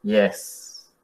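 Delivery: YES dropping low and soft; falling tone. Shown as a demonstration. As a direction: let YES sink to the bottom of the voice. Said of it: "Y con el falling tone". (YES con tono descendente)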